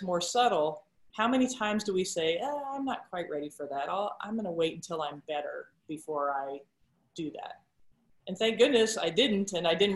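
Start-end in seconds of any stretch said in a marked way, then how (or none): 2.4-7.6 hesitant, quiet excuse. Pretend. Voicing everyone's hesitant excuse.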